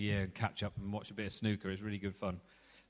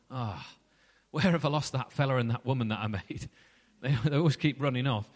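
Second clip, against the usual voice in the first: mock-bewildered God, lightly voiced and a bit faster at the end; confused God; 3 dB louder than usual. Preacher imagining a confused God searching the garden, half-joking mock bewilderment. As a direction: play God as a muddled parent who lost his kids. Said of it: "He's not confused".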